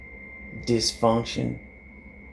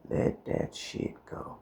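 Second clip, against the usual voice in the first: mock Confucius; 8 dB quieter, slower than usual. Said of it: "Confucius say".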